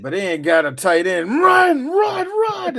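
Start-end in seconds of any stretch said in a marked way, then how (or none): 1.4-2.8 high sing-song run run run; mock cheer. Teasing a team with no tight end, high mock chant. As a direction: squeak it way up like a cheerleader.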